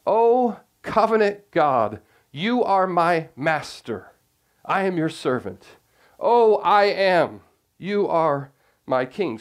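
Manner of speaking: lightly voiced psalmist; voicing David's prayer. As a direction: pray it as David, a servant to his king. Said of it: "So he's saying".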